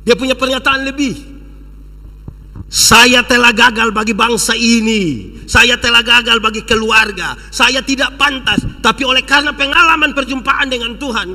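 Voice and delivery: forceful sermon delivery; preacher proclaiming a testimony; emphatic preaching. Real, not acted. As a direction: declaim it to the congregation. Preaches the quoted declaration.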